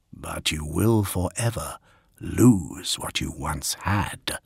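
low, slow voiceless whisper; a voice whispering inside his head; whispery telepathic voice. Acted. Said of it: "whispered a voice in his mind".

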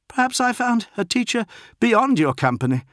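high, loud goading voice; defiant taunt. A narrator's reading. Bloodied postulant goads his captain, defiant.

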